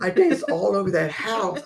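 a laugh running through the words; joyful, laughing retelling. Real, not acted. Joyful memory of dancing.

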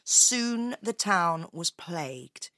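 slow, dramatic storyteller; story narration. A narrator's reading. Telling Leo of a town overrun by rats, dramatic narration. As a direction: draw out the growing menace of the rats.

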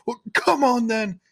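high, slow cheeky voice; drawn-out impatient wave-on; Stan hurrying. Retold or imitated. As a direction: conductor urging Harry aboard. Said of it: "And he's like".

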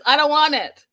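high, loud protesting no no no; hammed-up fussy refusal; whiny mock Florian. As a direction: raise the pitch and whine a refusal. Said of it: "He says".

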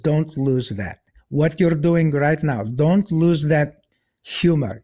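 lightly imitated Russian-accented advice; a hint of a Russian doctor's accent. Oncologist urging his patient to keep his humor, lightly Russian-accented. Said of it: "Russian accent".

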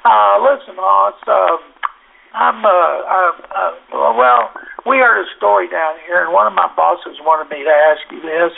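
hesitant, halting, awkward asking; stuttering and stammering. Retold or imitated. Reporter awkwardly asking linebacker about the worm, stammering. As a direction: fumble nervously for the words. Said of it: "he stutters and stammers and goes".

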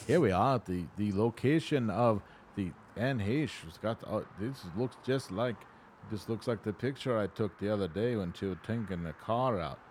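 lightly imitated video reporter on location; a hint of amateur news reporter; German in Venice. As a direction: report from the scene in a mock on-camera voice. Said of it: "German in Venice did a video about it".

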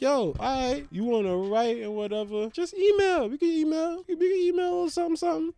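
high, soft, nervous backpedal; awkward hedge. Retold or imitated. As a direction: squeak out an excuse. Retold own awkward hedge.

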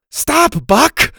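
high, loud, angry command; cross kid shouting. A narrator's reading. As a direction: snap angrily at a pet to stop. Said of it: "Bo said angrily".

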